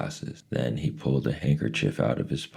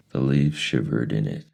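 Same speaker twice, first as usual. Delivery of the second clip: ordinary delivery, nothing marked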